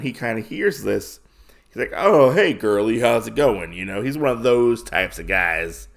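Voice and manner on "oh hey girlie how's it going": lightly voiced sleazy flirt, loud opening hey; a hint of a leering creep calling out; sleazeball. Leering guy at the bar hits on the woman, lightly voiced sleazeball. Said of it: "a real sleazeball".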